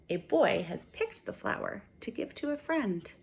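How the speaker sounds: lively, expressive storybook reading for a class; reading to children. Acted. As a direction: read it like a picture book for little kids. Teacher reads picture book aloud.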